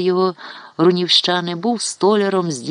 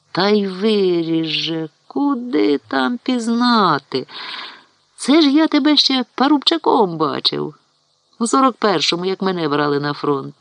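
amazed marvelling; 5 semitones higher than usual. Acted. Old neighbour marvels at grown boy. (протяжно, здивовано)

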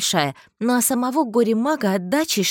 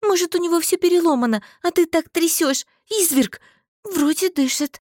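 high, agitated scold; worked-up, much higher voice; indignant scolding; 10 semitones higher, 3 dB louder than usual. A narrator's reading. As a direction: scold him with pitch jumping up. She scolds him for shaking.

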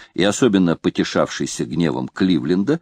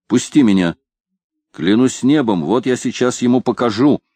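furious captain; 4 semitones higher than usual. Acted. Кливленд рвётся из рук друга.

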